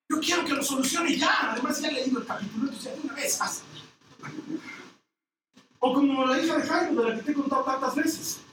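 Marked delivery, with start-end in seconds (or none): 0.1-3.6 impatient. Real, not acted. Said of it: "Me desespera que no se apure".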